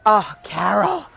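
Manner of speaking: slow, drawn-out overdone gratitude; gushing thanks. Retold or imitated. Mother thanks her mother-in-law, slow and gushing. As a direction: lay the thanks on thick.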